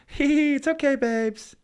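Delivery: high giggling mock comfort; mock giggly girlfriend calming a screaming man; giggly reassurance. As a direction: giggle it off like nothing's wrong. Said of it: "hear Unz in the background going".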